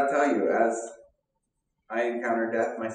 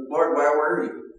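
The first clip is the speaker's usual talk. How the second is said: grieving plea; 5 semitones higher, 5 dB louder than usual. Retold or imitated. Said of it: "Mary's reaction, I feel like, is similar".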